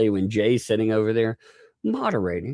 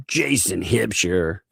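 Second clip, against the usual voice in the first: wrong voice; slower than usual. Pretend. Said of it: "whoop-, wrong voice".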